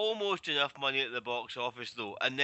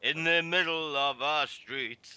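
a hint of cheery Cockney; light cheery Cockney accent; 5 dB louder than usual. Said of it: "my cheery Cockney accent".

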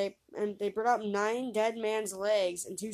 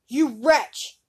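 loud, high furious shout; old man's furious cry; angry cry; 4 semitones higher, 11 dB louder than usual. A narrator's reading. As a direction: bellow at the insolent youth. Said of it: "cried he".

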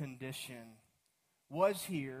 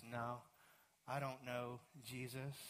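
low denial; 5 semitones lower, 8 dB quieter than usual. Acted. Peter's second denial.

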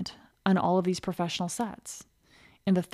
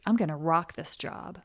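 excited self-talk; 3 dB louder than usual. Retold or imitated. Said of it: "the new thought is gonna be".

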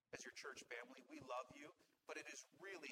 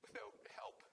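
crying; 6 semitones higher, 3 dB quieter than usual. Real, not acted. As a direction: voice raised and strained with tears. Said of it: "I'm crying 'cause".

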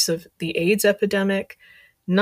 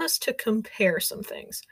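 whispering; 6 dB quieter than usual. Real, not acted. Whispered aside.

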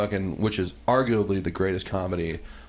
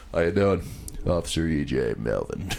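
mock cop; 4 semitones lower than usual.

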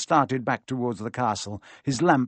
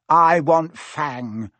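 ordinary delivery

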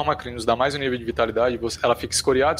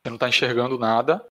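story narration; slower than usual. Acted. Game master sets the dark scene.

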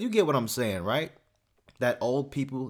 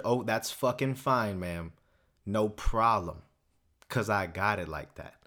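confident; 3 semitones lower than usual. Pretend. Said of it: "That's the confidence".

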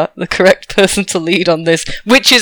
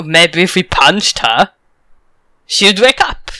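put-on slow, accidental French accent; accent slipped into French; 3 semitones lower, slower than usual. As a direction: let the accent drift into French. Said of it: "I've gone French".

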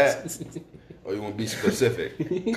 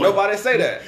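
imitating coworker; 9 semitones higher, 5 dB louder than usual. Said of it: "He was like".

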